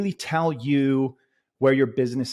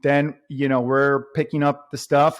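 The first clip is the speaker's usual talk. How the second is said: normal talking voice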